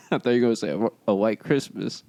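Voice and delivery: laughing out of character; breaking up mid-line; act slipping. Real, not acted. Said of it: "'cause I broke".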